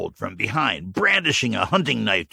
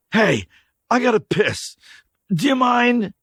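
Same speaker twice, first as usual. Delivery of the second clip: high, loud, casual crude ask; crude drifter; 5 dB louder than usual. Acted. Stranger asking to relieve himself, loud and casual. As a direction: shrug it off like nothing happened. Dirty man's voice.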